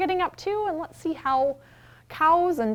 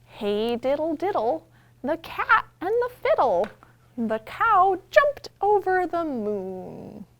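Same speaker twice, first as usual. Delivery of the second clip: louder, slow, bouncy rhyme reading; nursery rhyme recital; 5 semitones higher, 7 dB louder, slower than usual. Acted. Librarian acts out Hey Diddle Diddle with toys. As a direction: perform it big for toddlers.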